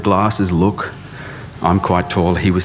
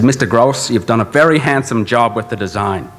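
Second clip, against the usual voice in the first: put-on Harry Seidler accent; 3 semitones higher than usual. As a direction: do Harry Seidler's accent praising the student's design, understated. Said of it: "having to do this accent".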